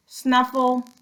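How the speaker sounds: high, loud snuffle; pig snuffle. Acted. Mercy trying to wake Baby, a high piggy snuffle. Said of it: "said Mercy".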